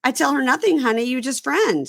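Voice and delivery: sassy clumsy English with honey tacked on; mock broken English. Host mocking a reality star's broken English reply. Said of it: "And she goes".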